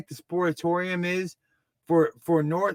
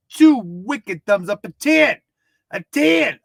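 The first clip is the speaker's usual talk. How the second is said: excited; 3 semitones higher, 5 dB louder than usual. Real, not acted. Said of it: "enthusiastic rating".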